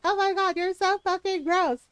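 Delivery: disgusted complaint. Retold or imitated. Work bully complaining about Ron's farting, disgusted. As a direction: mimic someone thoroughly grossed out.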